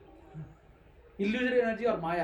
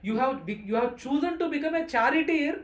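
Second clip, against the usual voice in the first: Krishna teasing Arjuna; 3 semitones higher, 4 dB louder, much faster than usual. Acted. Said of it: "Krishna's intention here when he says like that".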